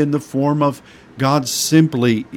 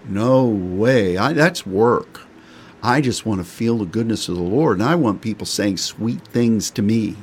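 mock lazy intercessor. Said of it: "some people really like the warm and cuddly".

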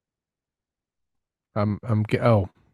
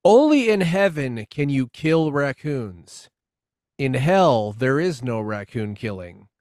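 mock solemn pronouncement; 4 dB louder, slower than usual. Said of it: "Anyway, so".

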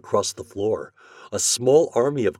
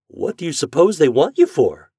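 anxious; 8 semitones higher, 8 dB louder than usual. A narrator's reading. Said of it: "with a very anxious face".

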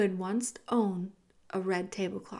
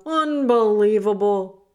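amazed; 10 dB louder than usual. Acted. Awed mouse exclaims.

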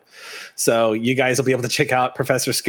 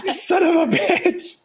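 laughing exclamation; much slower than usual. Real, not acted. GM reacts to a question.

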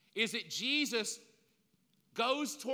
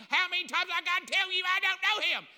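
exasperated, shouted higher and louder; angry denial; 10 semitones higher, 8 dB louder, faster than usual. Acted. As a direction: snap it like you're sick of being asked. Peter denying Jesus angrily.

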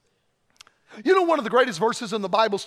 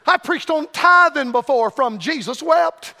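slow shout; 4 semitones higher, 6 dB louder, slower than usual. Acted. Punchline shouted to crowd.

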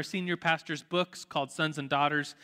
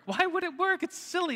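scoffing; 12 semitones higher than usual. Real, not acted. Mocking the mosquito app.

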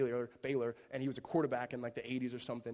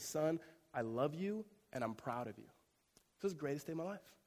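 father's proud words. Retold or imitated. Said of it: "looks him in his face and says".

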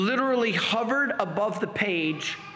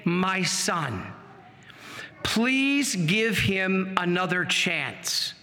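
slow, gentle motherly plea; tender motherly voice; much slower than usual. Retold or imitated. Mother pleading with her son for the priest, tender and slow. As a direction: plead tenderly, drawing out the words. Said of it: "most motherly, tender, loving voice say".

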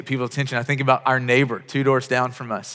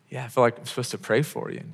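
softer, half-whispered retold reply; hushed, hesitant offer; 3 semitones lower, 8 dB quieter than usual. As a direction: say it low, almost under the breath. Awkwardly retold offer to pray.

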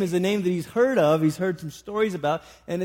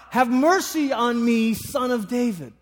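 crying out; 6 semitones higher, 3 dB louder than usual. Acted. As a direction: cry out to someone passing by for mercy. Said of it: "he starts to cry out".

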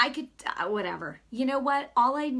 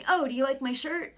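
lightly imitated wise guy, higher; tough wise guy; 4 semitones higher, 4 dB louder than usual. Man starting a chat outside a store, mock wise guy. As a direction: mimic a tough guy opener. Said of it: "kinda like a tough slash wise guy".

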